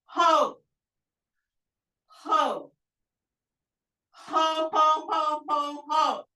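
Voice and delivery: high, round ho-ho laughs; laughter yoga ho. Shown as a demonstration. Instructor leading class in laughter yoga, high ho-ho laughs. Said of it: "One more".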